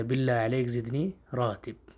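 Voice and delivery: راتب ending on a bare ب with no vowel after; final word silent vowel. Shown as a demonstration. Teacher correcting students, final vowel dropped. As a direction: clip راتب short at the end. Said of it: "آخری لفظ کو ساکن کر دیا جاتا ہے".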